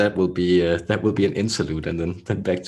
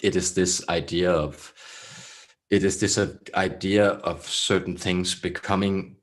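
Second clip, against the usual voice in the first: throaty channeled voice. Acted. Channeled beings answer Laura on twelve strands, throaty and measured. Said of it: "they speak in such a throaty".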